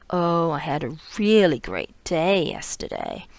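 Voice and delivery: flat sarcastic delivery, not really pleased; dry, sarcastic read. Shown as a demonstration. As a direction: say it like the day was awful. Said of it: "I'm saying it with a very different, um, prosodic tone".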